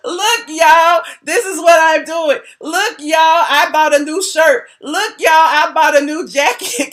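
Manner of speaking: mock him shouting look y'all like a show-off. Mocking him showing off purchases.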